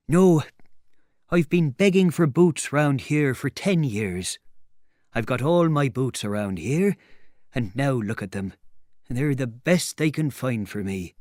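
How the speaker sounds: emphatic tramp, starting high and loud; complaining tramp. Acted. Tramp explaining ten years of begging for boots, aggrieved. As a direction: protest like a long-suffering tramp.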